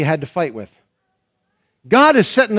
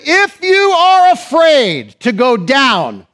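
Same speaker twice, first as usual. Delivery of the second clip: voice of God; 5 semitones higher, 3 dB louder, slower than usual. Acted. Preacher voicing God's command.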